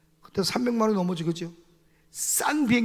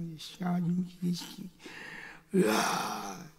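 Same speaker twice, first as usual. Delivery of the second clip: muttered grumble; 3 semitones lower, 12 dB quieter, much slower than usual. Retold or imitated. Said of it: "막 화가 나가지고".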